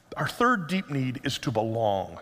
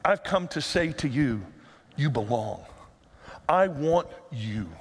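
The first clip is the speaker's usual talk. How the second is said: tender Jesus; 3 semitones lower than usual. Acted. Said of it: "Jesus says".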